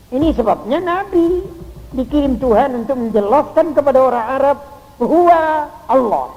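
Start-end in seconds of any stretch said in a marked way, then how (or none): 5.0-6.3 loud, slow, high proclamation; proclaiming. Acted. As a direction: declare it to the whole world. Preacher proclaiming God's name.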